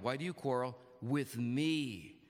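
weight on "me" at the end; low reading voice, punching "with me"; emphasized words. Shown as a demonstration. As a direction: lean hard into "me". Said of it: "I'm gonna emphasize certain words".

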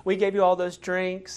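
lightly voiced king brushing it off; mock cheerful king. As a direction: cover the lie with breezy cheer. David fakes delight at pregnancy.

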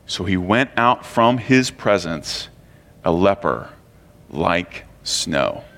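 measured Bible reading, sinking at solemn endings; scripture reading. A narrator's reading. Preacher reads the Bible story to the congregation, solemn scripture reading. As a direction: read the passage out with gravity.

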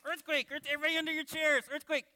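high, rapid puppet alarm; panicking puppet. Pretend. Puppet woken by children's shouting, high mock panic. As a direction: play a startled puppet sounding the alarm. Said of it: "I'm your ventriloquist".

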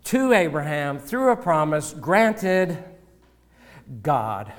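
pastor reads the verse in Greek order to his congregation, slow and deliberate with pauses; slow Greek word order, each phrase set apart. Shown as a demonstration. Pastor showing the congregation the Greek word order, slow and deliberate. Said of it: "that's the emphasis in the Greek".

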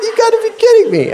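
high, fast, exasperated outburst; retold incredulous cry; mock disbelief. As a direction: blurt it out in comic disbelief. Retold disbelief at daughter's discovery.

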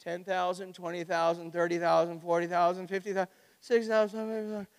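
tag count. Acted. Acting out counting the troops.

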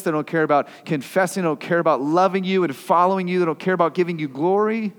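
high, loud ranting; indignant rant. Retold or imitated. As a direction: hammer each they don't care. Psalmist ranting about the wicked.

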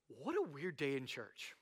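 soft, slow, low aside; hushed bemusement. Acted. Reader reacting to the exorcism story, quietly bemused. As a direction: say it under your breath, a bit weirded out.

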